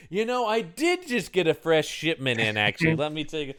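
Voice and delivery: smooth shop clerk pitch; salesman voice. Retold or imitated. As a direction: sell it like a helpful clerk. Morgue clerk voiced in retelling.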